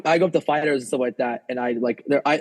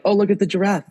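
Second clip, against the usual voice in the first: imitating Nate Diaz; 8 semitones higher than usual. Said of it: "heard Nate Diaz's lisp".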